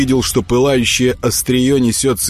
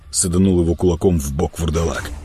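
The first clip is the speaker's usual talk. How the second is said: usual speaking voice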